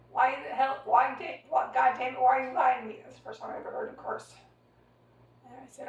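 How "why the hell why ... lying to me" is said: imitating dad's louder, cursing yell; retold fury, a bit louder; angry shout. Father cursing at daughter, retold.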